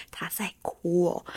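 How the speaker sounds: slow unvoiced whisper, almost just lip-read; mouthed words. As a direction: mouth it across the table without voice. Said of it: "唇语说". (用唇语无声慢慢地说)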